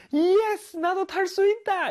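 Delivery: very high, joyful whoop of delight. Explaining the word hollering to learners, acting out a joyful shout. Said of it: "이렇게 막 소리를 지르는 것이죠".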